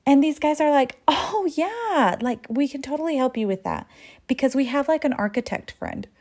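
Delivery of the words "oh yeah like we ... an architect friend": higher, airy bro voice, quickening; lightly voiced dudebro; eager dude voice. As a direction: overeager guys trying to impress. Guys eagerly offer help.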